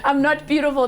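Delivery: laughing while mock-voicing the doubting girl; laughing quote. Coach playfully voicing a doubting girl, laughing. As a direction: giggle through the quoted line.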